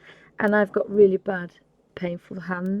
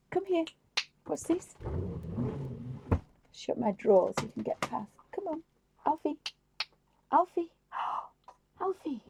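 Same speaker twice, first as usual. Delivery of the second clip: calling the dog; 2 semitones higher, 6 dB quieter than usual. Real, not acted. Calling the puppy over.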